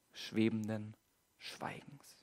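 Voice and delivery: fading into a breathy whisper; softly whispered stillness; hushed whisper. A narrator's reading. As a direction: let the words dissolve into silence. Silence after the storm.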